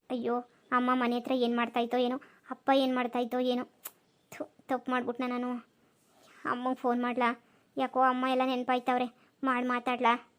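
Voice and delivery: a hint of sad, fretful self-talk; homesick fretting. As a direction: brood quietly about missing mom and dad. Homesick husband worrying about parents.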